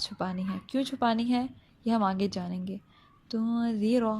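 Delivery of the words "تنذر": held hidden n, then soft "th" as in "this" in "تنذر"; soft zaal. Shown as a demonstration. Teacher modelling "تنذر", soft zaal. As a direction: say "تنذر" with tongue tip at the upper teeth. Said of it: "زال میں نرمی".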